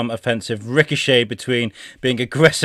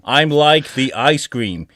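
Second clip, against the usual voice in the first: stupid AI voice. Acted. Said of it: "read these out in these stupid voices".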